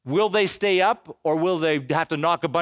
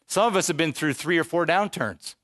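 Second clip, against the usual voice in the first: ordinary talk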